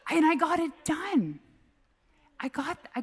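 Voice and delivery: laughing. Real, not acted. Laughing after dad story.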